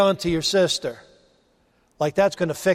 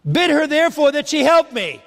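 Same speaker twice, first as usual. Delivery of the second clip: mock a put-upon sister asking for help; whiny Martha; 6 semitones higher than usual. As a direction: Martha demanding that Jesus make Mary help her, in a whiny voice. Martha's demand acted out.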